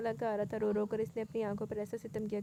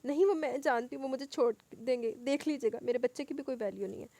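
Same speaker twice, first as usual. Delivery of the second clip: crying; 3 semitones higher, 5 dB louder than usual. Acted. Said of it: "मुसलसल इसके रोने पर".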